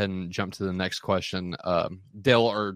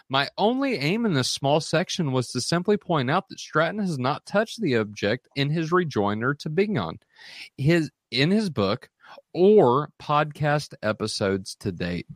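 higher-pitched, emphatic quote reading; animated reading; 5 semitones higher than usual. Real, not acted. Moderator reads a critic's objection to the doctor, animated. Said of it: "you were a little animated there".

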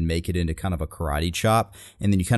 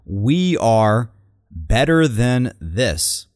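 slow, louder rally cadence on better; a hint of a grand stump speech; slow rally line; 3 semitones higher, 4 dB louder, slower than usual. Quoting the candidate's big line again, slow. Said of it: "And then she says".

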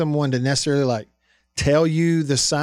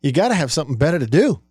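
put-on quick New York accent; a fast New York accent; Mike Francesa New York accent; faster than usual. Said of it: "I can hear Mike Francesa in that New York accent going".

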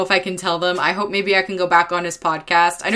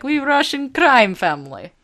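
higher-pitched mock Russian; fake Russian accent; 5 semitones higher than usual. Friends playing a crime family, in a fake Russian accent. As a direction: do a clearly not-Russian Russian accent. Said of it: "one of those Russian accents that's clearly".

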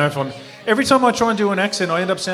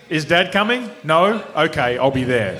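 lightly voiced blunt racer, questions then resignation; Remy; slower than usual. Son checking whether Dad attends, lightly impersonated. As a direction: do a terse impersonation of a fellow racer. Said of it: "I need to do Remy".

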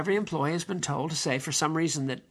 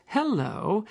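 imitated teller greeting; 5 semitones higher than usual. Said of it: "First, she says".

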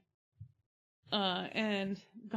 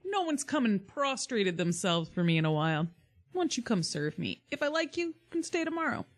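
haughty king; 6 semitones higher than usual. Acted. Lear voiced in the retelling.

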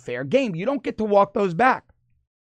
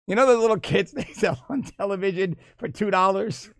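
laughing through the words; real laughter breaking into the line; 3 semitones higher than usual. Real, not acted. Host cracks up reading Trump's story, laughing.

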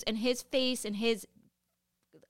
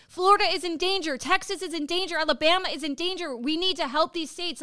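higher, louder rallying call; rallying speech; 6 semitones higher, 5 dB louder than usual. Pretend. Imagining the vice president rallying the country, louder. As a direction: announce it like a leader. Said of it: "I wanna hear her voice saying".

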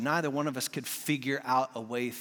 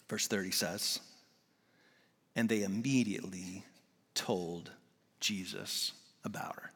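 slow, lower, breathy whisper; 5 semitones lower, 5 dB quieter, slower than usual. Acted. Preacher hushes to a whisper before the verse. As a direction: draw them in with a whisper. Whispered question then scripture.

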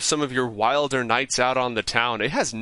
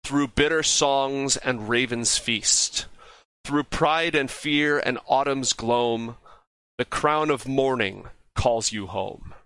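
slow, solemn rhyme recital; slow recited verse; slower than usual. Acted. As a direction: chant the riddle slowly like a spell.

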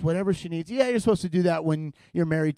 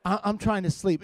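sarcastic husband; 6 dB quieter than usual. Retold or imitated. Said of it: "You're like".

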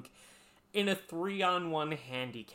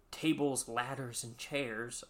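mock dread announcement; slower than usual. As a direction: announce it ominously, with pauses between items. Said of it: "supposed to be said with some fear in your heart".

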